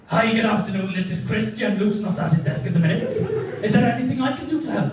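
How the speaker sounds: bluffing Welsh receptionist; Welsh accent. Retold or imitated. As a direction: put on a Welsh lilt.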